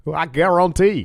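Cajun chef impression. Riffing on the mail story, mimicking a Cajun chef.

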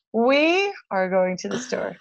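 "We" held long at the front; stress on We. Shown as a demonstration. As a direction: slowly model the sentence, leaning on "We". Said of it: "You would say".

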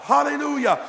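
high, loud shout of praise; exultant preacher's holler; crying out praise. Acted. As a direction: cry it out from the soul. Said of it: "my soul cries out".

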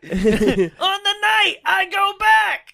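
high, slow, laughing shout; mock shout. Thor pleading with his mom, a slow high shout. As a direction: stretch it out in hammed-up desperation.

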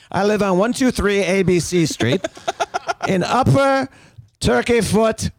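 put-on Southern accent. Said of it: "Why do I have to talk with that accent?".

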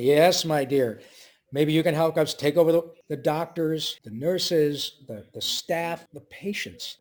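a touch of the scheming Brain; mild Brain voice; the Brain's reply. Retold or imitated. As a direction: lightly play the plotting lab mouse. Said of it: "And then Maurice said".

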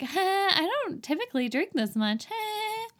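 high-pitched mock giggly "huh"; annoying laugh imitation. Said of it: "She has this annoying laugh through all of it".

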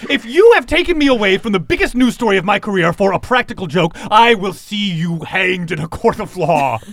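indignant newscaster voice, rising high; a reporter furious at the prank; outraged reporter. Acted. Reporter scolding the artists, indignant and high.

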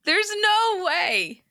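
slow, stretched shocked protest; surprised. Real, not acted. Disbelief at bra size.

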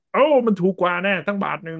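high-pitched, exaggerated delight; mock excited bargain-hunter. Mimicking drivers who queue for cheaper charging, mock excited. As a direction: put on an over-eager bargain-hunter's voice. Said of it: "แต่กลุ่มหนึ่งก็จะประมาณว่าแบบ".

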